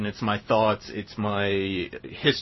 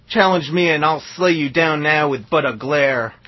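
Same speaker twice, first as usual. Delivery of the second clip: cowboy poetry; 6 semitones higher, 9 dB louder than usual. Acted. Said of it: "This is called Psycho Killer Cowboy Poem".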